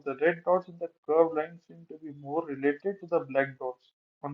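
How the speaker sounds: slow, careful reading from a slide; slow text reading. Real, not acted. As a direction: read it word by word. Reads slide text aloud. (धीरे-धीरे पढ़ना)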